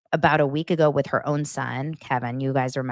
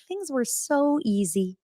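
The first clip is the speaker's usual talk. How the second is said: wistful sigh; 9 semitones higher, 3 dB quieter, slower than usual. Retold or imitated. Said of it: "I'm like".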